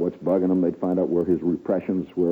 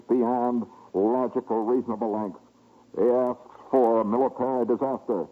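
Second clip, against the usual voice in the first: solemn ghostly general; 3 semitones higher than usual. Retold or imitated. Hannibal's spirit answering.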